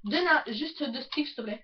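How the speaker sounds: talking with mouth full; words round a bite of food; chewing while talking. Real, not acted. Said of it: "le gros porc qui bouffe en vidéo".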